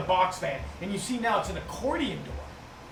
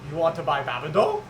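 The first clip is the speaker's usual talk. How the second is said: goblin salesman. Acted. Goblin offers Babado.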